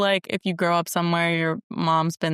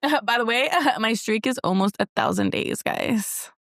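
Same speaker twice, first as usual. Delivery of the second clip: hype friend cheering; 4 semitones higher than usual. Pretend. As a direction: hype yourself up with laughs. Mock Duolingo hype.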